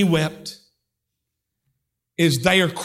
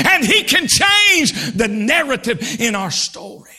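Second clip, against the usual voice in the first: preaching at full force; 3 semitones higher than usual. Acted. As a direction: build the crowd to a shout.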